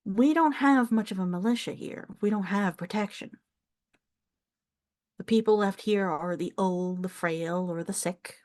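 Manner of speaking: lightly voiced older Southern farm woman; a hint of a proud Southern elder; proud elderly countrywoman. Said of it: "like, elderly woman who has pride".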